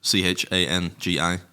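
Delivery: Changi spelt out slowly letter by letter; spelling it out. Shown as a demonstration. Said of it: "I don't know if that's how you pronounce it".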